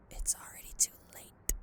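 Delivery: whispered threat; menacing whisper. Acted. Villain whispering a threat to the hero. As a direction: breathe it like a threat.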